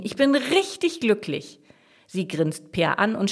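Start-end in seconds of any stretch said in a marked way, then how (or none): 0.0-1.6 high, slow, happy declaration; delighted. A narrator's reading. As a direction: draw it out with high-pitched happiness. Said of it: "freut sich Jasmin".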